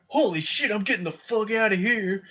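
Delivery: high-pitched mock outburst; alarmed dad. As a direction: exclaim it like an appalled father bolting. Retelling dad's horrified reaction to bugs.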